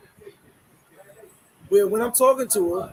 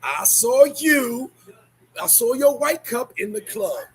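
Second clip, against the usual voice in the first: accusing; 4 dB louder, slower than usual. Retold or imitated. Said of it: "And they'll be like".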